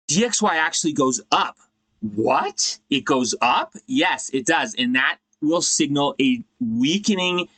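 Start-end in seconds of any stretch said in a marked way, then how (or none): 2.2-3.8 mock surprise. Feigned shock at counterintuitive point.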